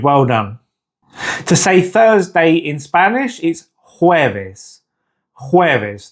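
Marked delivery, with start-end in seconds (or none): 4.0-6.1 "jueves" opening on an H sound, "hweves". Shown as a demonstration. Teacher introducing Thursday to learners, "jueves" with the J as H. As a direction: start "jueves" with a breath of H in place of J. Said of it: "That J in Spanish is pronounced like an H".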